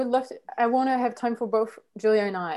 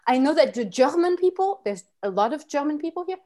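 put-on hesitant French accent. French person discusses croissants, in a French accent. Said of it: "Ah, the French accent".

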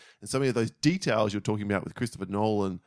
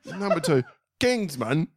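put-on shithouse English accent; 4 semitones higher, slower than usual. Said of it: "in an English shithouse accent".

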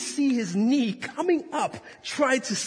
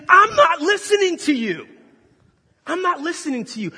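a hint of a stubborn child, loud then easing; mock refusal; 8 semitones higher, 7 dB louder than usual. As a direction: voice the body brushing you off. Body voiced refusing to listen.

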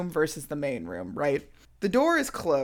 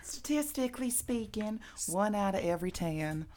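mock announcer; 3 semitones higher, 8 dB quieter than usual. Mock formal stats line.

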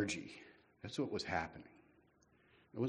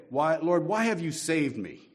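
higher, louder mock whine to God; whiny complaint; 5 semitones higher, 5 dB louder than usual. Preacher voices a modern believer, mock whining. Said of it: "We could say that today".

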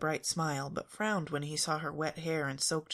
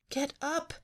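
high, urgent snap; snapped order; 12 semitones higher than usual. A narrator's reading. Daphne tugging Fred out of bed, impatient snap. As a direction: snap it at a higher pitch. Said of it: "Daphne snapped".

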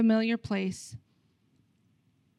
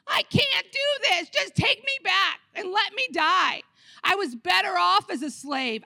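crying like babies; 5 semitones higher than usual. Retold or imitated. Preacher mocks the Israelites crying to return, high wail. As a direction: whine like a big baby who wants to go back. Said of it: "they're all crying like babies".

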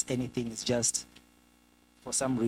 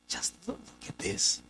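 hushed, self-impressed musing; self-admiring king; 5 dB quieter than usual. Acted. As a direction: softly marvel at your own work. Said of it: "while he's on this monologue by himself".

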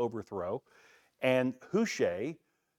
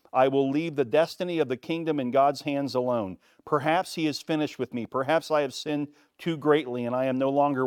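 lightly voiced king, raised and earnest; a weary king's resolve, spoken out; a hint of a troubled David; David reading; 2 semitones higher, 5 dB louder than usual. Reads David's reply aloud.

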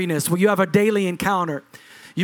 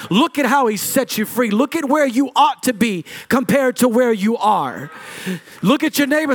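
preaching at full force; 3 semitones higher than usual. Acted. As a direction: build the altar call to a shout. Preaching climax, congregation repeats.

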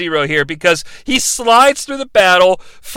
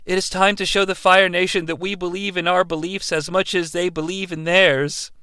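straight-faced; 7 dB quieter than usual. Retold or imitated. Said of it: "says with a straight face".

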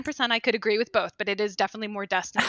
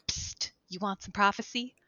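shady witch dealer; 8 dB quieter than usual. Pretend. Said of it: "the witches are like".

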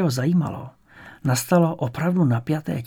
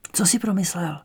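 unvoiced secret question; whisper; 5 semitones higher than usual. Jirka whispers back to Honza during the assembly, hushed. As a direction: whisper so the teacher won't hear.

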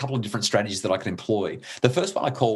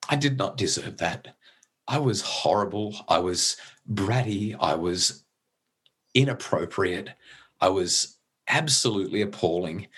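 halting, real emotion creeping into the voice; getting emotional. Real, not acted. Father imagining his grown daughter's thanks, getting emotional. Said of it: "sorry, I'm getting all emotional about it".

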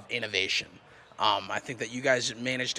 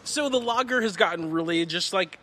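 excited, flustered; 10 semitones higher, 6 dB louder than usual. Real, not acted. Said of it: "Just don't cry again".

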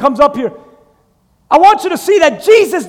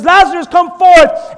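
command; 3 semitones higher, 4 dB louder than usual. Acted. Jesus commanding the dead.

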